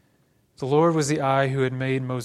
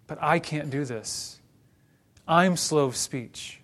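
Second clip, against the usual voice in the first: emphatic "I" in a complaint; stress on I; slower than usual. Acted. Preacher voicing Moses' objection, stress on "I". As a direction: lean on "I" and "I'm". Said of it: "emphatic I to talk about".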